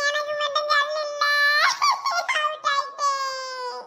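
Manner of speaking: put-on high-pitched child's wail; crying. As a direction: cry out the loss in long, drawn-out high notes. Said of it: "என்ன அழுது அழுது". (அழுதுகொண்டே இழுத்துப் பேசும் குரல்)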